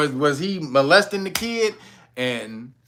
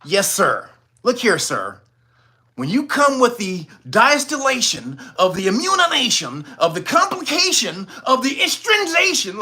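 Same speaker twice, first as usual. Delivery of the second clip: high, far mock proper voice with big words; proper talk parody; 6 semitones higher than usual. Mocking how affluent-school kids are expected to talk, in a high stiff voice. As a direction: lampoon a stiff educated speaker, pitched up. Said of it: "you're supposed to talk a certain way".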